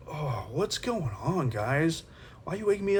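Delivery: sleepy waking voice. Retold or imitated. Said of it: "he wakes up and he's like".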